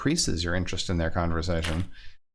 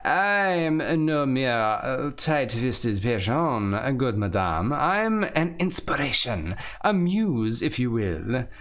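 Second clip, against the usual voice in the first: lightly voiced pompous gentleman, raised a little; a hint of a boastful philosopher; proud libertine. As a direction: puff up like a vain dandy. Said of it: "The sharply dressed man proudly replies".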